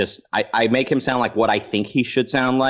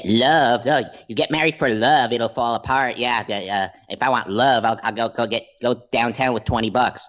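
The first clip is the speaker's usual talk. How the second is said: Ben Shapiro. Retold or imitated. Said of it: "I did the Ben Shapiro".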